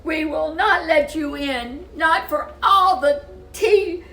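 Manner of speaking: tiny wolves chanting back at the pig; squeaky little wolves. Acted. Wolves defying the pig again.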